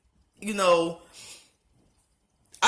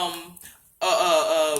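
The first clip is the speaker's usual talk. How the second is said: crying; 5 semitones lower, slower than usual. Real, not acted. Breaks down mid-sentence.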